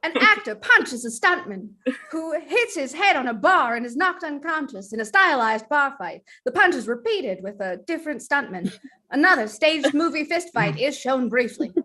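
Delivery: put-on old-time newsreel announcer; fifties newsreel voice. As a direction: read it like a fifties newscaster. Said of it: "you broke into fifties newscaster voice".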